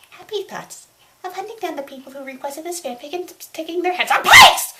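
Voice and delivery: building from calm to a loud high yell; rising rage. Acted. Critic's calm cracking into a yell about the requesters. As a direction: let the fury burst out at the end.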